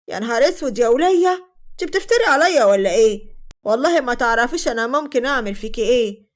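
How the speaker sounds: mildly heated, indignant protest; indignant quarrel. Acted. Arguing back at a woman at the door, indignant. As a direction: push back with a restrained threat.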